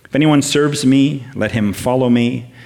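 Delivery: solemn, emphatic Bible reading, slowing on key phrases; scripture reading. Acted. Preacher reading John twelve to the church, solemn proclamation. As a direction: proclaim the verses from John twelve, deliberate and weighty.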